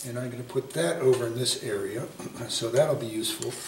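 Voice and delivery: rough, throaty voice; catching in the throat, hoarse; frog in throat. Real, not acted. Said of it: "I got a frog in my throat".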